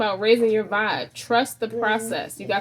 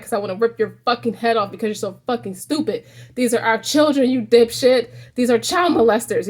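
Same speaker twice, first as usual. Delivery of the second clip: building to a louder, angry rant; a mock-furious wife telling him off; getting mad; 4 dB louder than usual. Wife yelling at her husband over the children, mock angry. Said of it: "She was getting mad".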